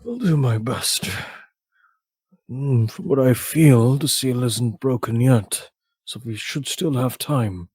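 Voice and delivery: a lightly voiced agent, steady and slow; promising calmly to do his best; calm agent reply. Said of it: "You hear him just nod like".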